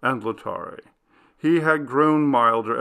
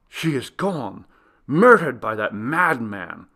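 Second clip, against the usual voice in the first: a touch of despairing outcry; anguished cry; 3 dB louder than usual. Acted. Lothario at the gallery door, crying out in despair. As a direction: cry it out in horror. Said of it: "cried Lothario".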